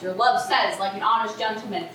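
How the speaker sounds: mocking imitation. Juliet throwing the nurse's reply back at her, mockingly. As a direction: parrot her words back, indignant. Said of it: "How awfully thou repliest".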